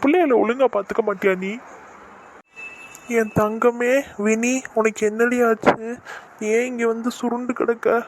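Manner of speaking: fretting father. Acted. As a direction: scold the wife, then wail over the child. Father frets over sick daughter. (மகளுக்காக பதறும் அப்பா குரல்)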